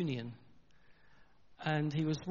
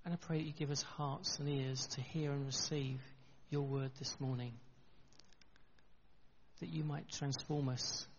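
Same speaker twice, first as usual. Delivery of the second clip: softer, measured praying voice; earnest prayer; 7 dB quieter than usual. Real, not acted. Preacher asks God to bless his sermon, softer prayer. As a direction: pray quietly for a clear word.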